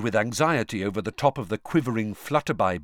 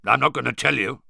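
gruff; 5 dB louder, faster than usual. Acted. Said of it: "said Moody gruffly".

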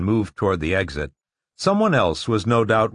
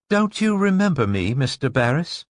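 higher, hollow, distant question; eerie hollow woman's voice; 6 semitones higher than usual. Acted. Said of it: "she said in a hollow voice".

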